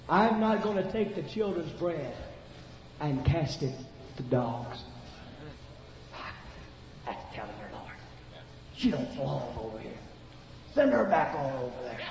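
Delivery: mildly scornful disciples sending her away; understated contempt; a hint of cold disciples. Disciples' rejection, dropped low.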